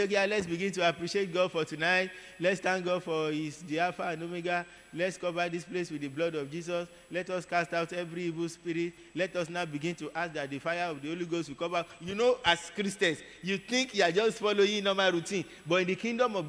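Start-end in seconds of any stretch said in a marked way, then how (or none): 0.0-11.8 lightly voiced prayer leader opening a vigil; church prayer leader. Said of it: "you say".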